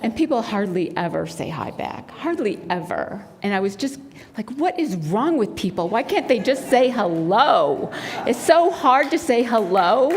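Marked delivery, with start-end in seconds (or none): 4.6-10.1 exasperated complaint with swooping emphasis; a touch of mock exasperation; mildly annoyed. Runner grumbling to herself about unfriendly people, mildly annoyed. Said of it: "starting to get a little annoyed".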